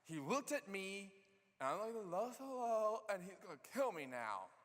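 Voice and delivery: a retold panic that builds into a frightened shout; freaking out. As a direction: panic as if you will die on the spot. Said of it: "Gideon freaks out".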